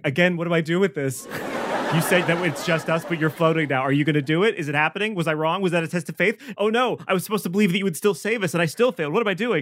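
a rat cult leader losing faith before the floating hero; panicking cult leader. Acted. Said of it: "the cult leader looks up and is like".

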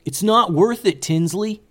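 high, loud wizard's plea; pleading yell. A narrator's reading. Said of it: "yelled another wizard".

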